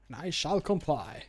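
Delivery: flamboyant. Acted. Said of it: "I like it being a bit flamboyant".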